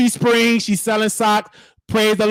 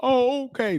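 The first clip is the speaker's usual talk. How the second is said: mock crying; 4 semitones higher, 4 dB quieter than usual. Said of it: "doing all that crying".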